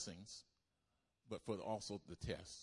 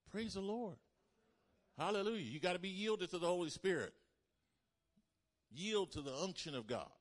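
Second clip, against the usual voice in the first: fervent praise; 7 semitones higher, 5 dB louder than usual. Real, not acted. Preacher rising in fervor.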